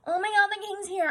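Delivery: high-pitched excited crowd cry; mock awestruck panic; losing their shit. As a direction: squeal it like starstruck courtiers. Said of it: "losing their shit".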